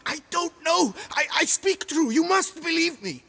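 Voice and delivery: frightened prisoner swearing he tells the truth; pleading. Acted. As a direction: beg to be believed.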